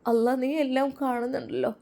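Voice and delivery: understated sobbing plea; mildly acted, halting lament; tearful prayer. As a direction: beseech God with a touch of tears. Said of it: "അവൾ വിതുമ്പിക്കൊണ്ട് കരഞ്ഞു".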